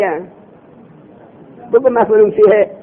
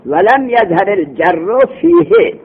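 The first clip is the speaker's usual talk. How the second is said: reading the text; 2 semitones higher, slower than usual. Shown as a demonstration. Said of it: "عبارت بخونن".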